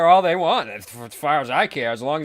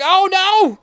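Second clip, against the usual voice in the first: mock panic; 13 dB louder than usual. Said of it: "they're like".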